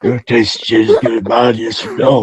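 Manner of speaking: lightly voiced old wrestler; a hint of a creepy old wrestler; Jake Roberts impression. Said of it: "How was that Jake Roberts impression?".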